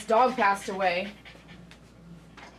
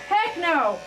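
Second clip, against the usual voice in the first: higher, emphatic self-censored heck no; corrected heck no; 6 semitones higher than usual. Retold or imitated. Groomer censoring her own inner voice, emphatic. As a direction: swap the swear for heck, punched. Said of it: "I, excuse me".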